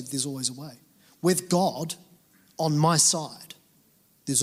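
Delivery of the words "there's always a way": soft, inward, said to yourself; a quiet mantra under the breath; quiet affirmation. Shown as a demonstration. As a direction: murmur it to your soul. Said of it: "you just say".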